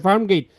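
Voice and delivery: Farm গেট ending in the English "gate" vowel; wrong vowel demo. Shown as a demonstration. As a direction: say গেট as "geit", with an ei glide. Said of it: "এত করে বলার পরও গেট লিখে ফেলছে". (গেট-কে "গেইট" উচ্চারণে)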